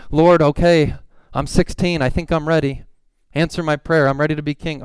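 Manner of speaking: lightly acted impatient teen prayer; eager young David praying.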